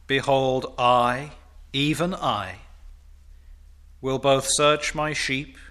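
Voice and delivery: loud, slow, ringing declaration of God's promise; thundering pulpit voice; booming proclamation. Acted. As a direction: proclaim it to the rafters. Preacher booming God's words.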